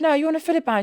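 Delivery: high-pitched scolding quote; retelling the filler ban; mock telling off. Telling client off.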